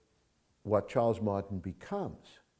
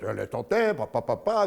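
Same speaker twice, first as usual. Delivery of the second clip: frantic gamblers; 2 semitones higher, 5 dB louder than usual. Retold or imitated. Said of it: "Everybody else goes".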